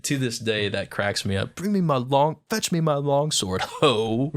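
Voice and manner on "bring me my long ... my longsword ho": light, slightly raised offhand line; dismissive retelling. Retold or imitated. Retelling the classroom line, mildly dismissive. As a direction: say it like brushing someone off. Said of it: "a dismissive".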